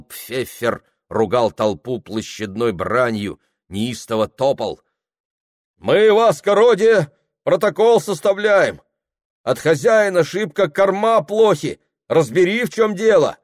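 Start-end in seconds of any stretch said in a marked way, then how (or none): 5.8-13.4 high, loud respectful appeal; workers explaining. Acted. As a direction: plead their case.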